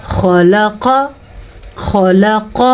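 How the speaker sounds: خلق as three short syllables, heavy kha and qaf; full qaf. Shown as a demonstration. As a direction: recite خلق thickly without stretching. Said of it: "قاف کو پر پڑھنا ہے".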